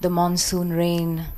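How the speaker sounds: measured, incantatory poetry reading; poem recital. Acted. Poet reading Homecoming to an audience, measured poetic recital. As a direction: read it as verse, phrase by phrase with pauses.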